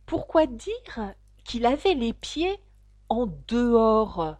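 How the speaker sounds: a lightly voiced slow turtle; puzzled mock turtle. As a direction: drag out the puzzled question. Mock turtle questions the phrase.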